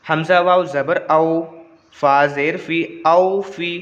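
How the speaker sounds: measured spelling chant, then joined word; practice recitation. Shown as a demonstration. Teacher practising joined letters with pupils, measured even recitation. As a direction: spell it evenly, then join the sounds. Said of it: "चलिए मश्क कर लेते हैं".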